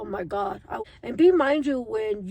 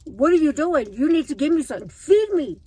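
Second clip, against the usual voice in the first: craving body voice; 3 semitones higher, 5 dB louder than usual. Pretend. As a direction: bark orders as a starving body. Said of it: "it's like".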